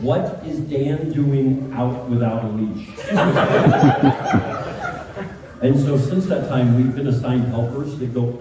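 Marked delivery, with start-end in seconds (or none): 0.0-2.9 slow, measured mock indignation; retold reproachful question. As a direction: space the words out in reproach. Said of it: "she texted Jill and said".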